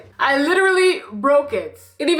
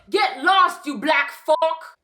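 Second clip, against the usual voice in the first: imitated Canadian accent; 2 semitones higher, much slower than usual. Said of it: "he winds down his window and he goes".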